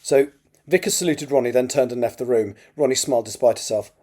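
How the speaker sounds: measured, expressive novel reading; story narration. A narrator's reading. Author reads a draft chapter aloud, story narration. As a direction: read it out as an audiobook narrator.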